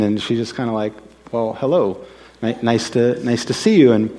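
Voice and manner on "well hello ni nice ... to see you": polite, hesitant hello, understated; uninterested greeting. Retold or imitated. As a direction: greet someone you barely care to see. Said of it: "that isn't what they were interested in".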